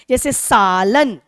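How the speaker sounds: slow demo stressing सा in सालन. Shown as a demonstration. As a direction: lean on सा in सालन. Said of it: "लन की अपेक्षा सा पे ज्यादा बल दे रहे हैं".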